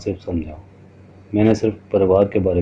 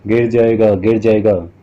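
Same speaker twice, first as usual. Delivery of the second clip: mock yell, a little louder; mild shout; 4 dB louder than usual. Boy shouting up to the man on the roof, mild warning yell. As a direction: call out in warning, understated. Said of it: "मैं चीखता रह गया".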